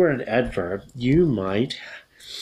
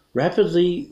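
Rapidly lifted high and loud at the start; Rapidly punched, rising; stressed rapidly; 8 semitones higher, 4 dB louder than usual. Shown as a demonstration. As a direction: hit Rapidly first, then pause. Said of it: "demo adverb at sentence start".

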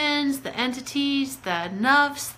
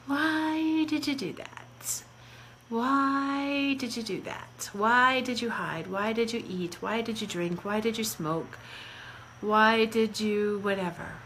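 inner critic voice; 4 dB quieter than usual. Retold or imitated. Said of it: "When that voice goes on inside of our head".

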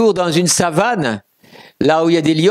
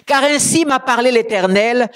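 high, declaimed Bible reading; preacher reading scripture aloud, pitched up; scripture proclamation; 7 semitones higher than usual. Acted. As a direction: proclaim the verse from the pulpit.

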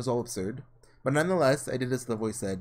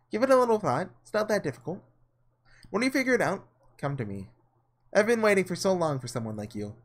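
lightly voiced, higher coaxing witch; 4 semitones higher than usual. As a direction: tempt him sweetly like a witch.

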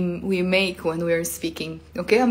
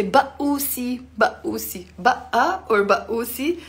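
playful boo; 3 semitones higher, much slower than usual. Shown as a demonstration. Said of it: "we can also say".

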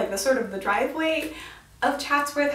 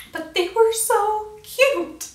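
gushing; 8 semitones higher, much slower than usual. Real, not acted. Gushing over sheep.

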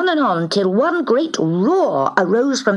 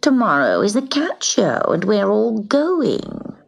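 scornful; 4 semitones higher than usual. Acted. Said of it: "she said scornfully".

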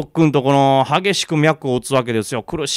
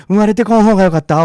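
put-on louder sinister old crone; creepy old woman; 2 semitones higher, 9 dB louder than usual. Old woman whispers a curse in the girl's ear, sinister. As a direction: hiss the curse with menace.

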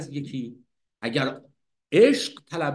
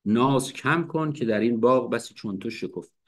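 poem recitation; 4 semitones lower than usual. Shown as a demonstration.

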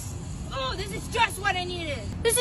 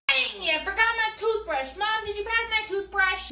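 put-on whiny little kid. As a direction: play a demanding little kid in the bath.

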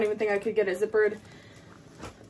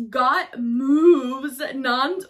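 a slow drawn-out moo on the words; mooing like a cow; much slower than usual. Real, not acted. Reading the jeans' name to viewers, drawn into a slow moo. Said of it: "sounded like a cow there".

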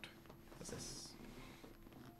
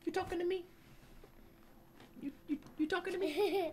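high mock tough-guy line; movie tough guy; faster than usual. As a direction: ham up the movie quote. Repeats movie line, hammed.

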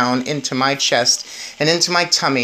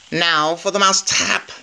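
witch yelling; 4 semitones higher than usual. Acted. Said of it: "I heard the Grand High Witch yelling".

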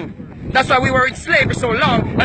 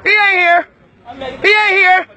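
angry shout; 3 semitones higher than usual. Real, not acted. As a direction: hurl it at the crowd. Yelling at congregation.

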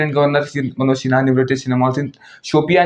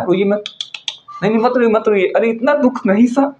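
high, sing-song fake sympathy; mock baby-talk consoling; 7 semitones higher than usual. Vlogger mockingly coos at crying Imran in high baby-talk.

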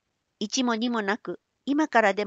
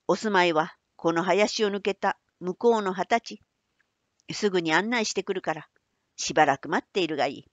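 put-on old man voice; 2 semitones lower, faster than usual. Manbei explains.

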